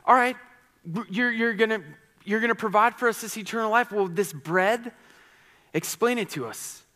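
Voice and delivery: mock demanding crowd wanting a sign. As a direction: play the skeptical crowd asking for proof. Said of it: "They ask".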